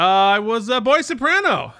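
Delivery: mock boy soprano. Choir guy repeating his boy-soprano joke, pitched high. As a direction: push the voice up like a choirboy.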